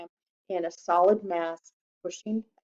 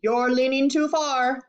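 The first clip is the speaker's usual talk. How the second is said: worried warning; 4 semitones higher than usual. Acted. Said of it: "cried Mister Globe".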